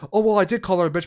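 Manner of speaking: high, loud careless admission; airy mocking confession; mock dumb excuse. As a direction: play the clueless offender.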